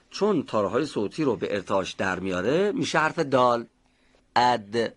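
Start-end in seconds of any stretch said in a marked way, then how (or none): 4.4-4.9 اد closed on a light, voiced d; stopped, voiced d. Shown as a demonstration. Teacher showing dal against te, voiced stop. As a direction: stop اد at the d and let the voice sound. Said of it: "فقط تارهای صوتی رو به ارتعاش در آورد".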